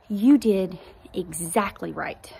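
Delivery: slow, calm imitation of the doctor's comfort; slow reassurance. Doctor reassuring the crying mother, slow and calm. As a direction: say it slowly, as if calming her down. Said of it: "he was comforting me".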